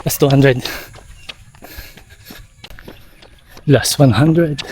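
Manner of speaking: rising excited countdown mid-sprint; while running. Real, not acted. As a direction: call out the distance while sprinting. Counting down final meters.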